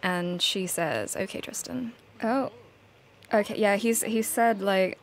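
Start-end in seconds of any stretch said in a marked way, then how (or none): 1.2-1.9 softly acted, subdued reply; quiet compliance. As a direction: give in quietly, voice lowered. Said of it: "Marnie is quite quiet when he says this".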